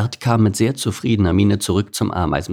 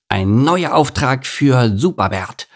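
slow, higher, proud proclamation; gleeful announcement; 5 semitones higher, 3 dB louder, slower than usual. Acted. Beaver greets his new mission, gleeful. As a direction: announce it grandly with a grin. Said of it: "rief der Biber grinsend".

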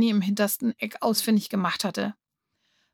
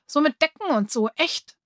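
put-on much higher, begging boy voice; a boy begging the two kids, pleading; 7 semitones higher than usual. A narrator's reading. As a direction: plead earnestly to be allowed to help. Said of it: "sagte Gary und schaute flehend".

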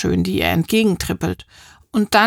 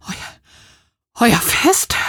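panting; 3 semitones higher, much slower than usual. Acted. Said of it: "keucht sie".

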